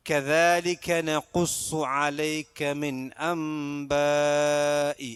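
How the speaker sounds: slow, drawn-out chanted recitation; Quran recitation. Shown as a demonstration. Teacher reciting a verse for students, slow chant. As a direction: intone the verse slowly as a model. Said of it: "teacher recites verse as model".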